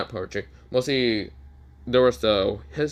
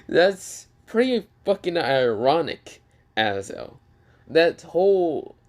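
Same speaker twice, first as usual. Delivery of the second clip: scornful mockery; 3 semitones higher, slower than usual. Issei mocks Azo's hypocrisy.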